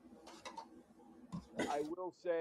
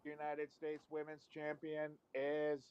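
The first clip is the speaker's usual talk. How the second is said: slow machine answer; robot voice; slower than usual. Acted. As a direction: spell it out like a robot. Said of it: "it's the robot".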